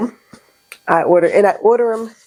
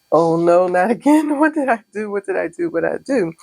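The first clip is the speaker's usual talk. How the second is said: mock dismay. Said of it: "am like".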